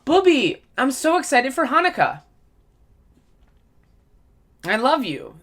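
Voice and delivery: gushing grandma at the holidays; old lady voice. Retold or imitated. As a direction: coo it like an excited old lady greeting her grandson. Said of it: "That's what I'm gonna say".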